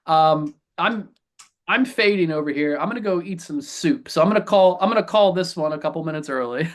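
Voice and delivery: tired, wheezy sick voice; worn out and a bit wheezy. Real, not acted. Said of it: "my wheezy voice here".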